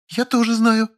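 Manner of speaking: high female character voice, whiny; Lilya, petulant. A narrator's reading. Lilya pleading with the narrator, high and petulant. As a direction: play the pouting woman, pitched high.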